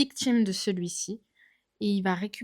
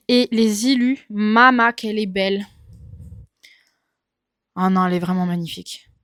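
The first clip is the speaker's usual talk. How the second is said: excited; 8 dB louder than usual. Real, not acted. Admire les illustrations du livre.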